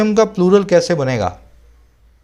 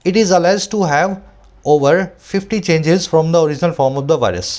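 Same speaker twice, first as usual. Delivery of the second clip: slow, deliberate reading aloud; slow dictation-style read; slow editorial reading; much slower than usual. Acted. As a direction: read each phrase out slowly for students. Reads statement slowly.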